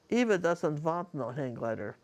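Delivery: imitated Bulgarian accent, "want" said as "vant"; Eva's Bulgarian accent. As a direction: lay down the law in a Bulgarian accent. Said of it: "I loved her accent".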